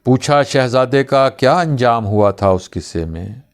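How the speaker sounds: questions recited one by one; measured, broken-up poetic questioning; poem recitation with pauses. Acted. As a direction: pause after each question of the verse. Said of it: "एक ही सांस में सब कुछ पूछ रहे हो".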